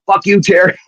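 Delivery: high-pitched retold yell, not full volume; mock scream. Wrestler yelling down the phone at his rival, mock scream. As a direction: yell it past him so the rival hears.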